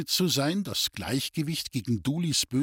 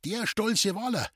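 incredulous; 8 semitones higher than usual. Acted. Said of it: "fragte die Mutter ungläubig".

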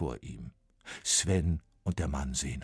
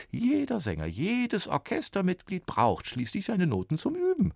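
higher lightly voiced explainer; weary copyist; 11 semitones higher than usual. A narrator's reading. Copyist explains the work to Sven, weary. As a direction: complain about the workload.

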